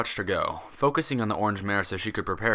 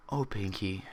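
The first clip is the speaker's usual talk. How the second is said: soft, breathy near-whisper; 7 dB quieter, slower than usual. A narrator's reading. Twilight softly comforts her sad friend, near-whisper. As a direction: barely voice it, tender pity. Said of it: "Twilight whispered".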